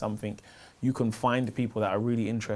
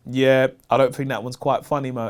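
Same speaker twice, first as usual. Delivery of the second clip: raised-voice mock heckle; retold heckle; 5 dB louder than usual. Audience member heckles the comedian on stage, mildly shouted. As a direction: call it out like a heckler, half-shouted. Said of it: "he just shouted out".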